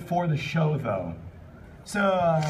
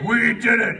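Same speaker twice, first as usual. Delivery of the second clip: mock cheer; 5 semitones higher, 6 dB louder than usual. Reading Paul's triumphant fic line.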